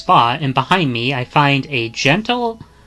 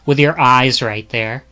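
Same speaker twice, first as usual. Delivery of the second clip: put-on higher, cheerful young woman's thanks; bright thankful young woman; 7 semitones higher, slower than usual. Young woman thanking a stranger for food, higher and cheerful. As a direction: beam and thank him, then introduce yourself.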